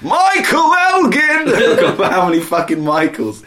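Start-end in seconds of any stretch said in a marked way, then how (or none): 0.0-1.5 loud high drawn-out calling of Michael. Pretend. Summoning all the Michaels, loud high calling. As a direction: hoot the name out high like a summons.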